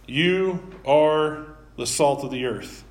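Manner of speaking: You leaned on, slow and firm; emphatic You; stress on YOU. Shown as a demonstration. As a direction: press the word You, then let the line fall. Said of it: "the word "you" is emphatic".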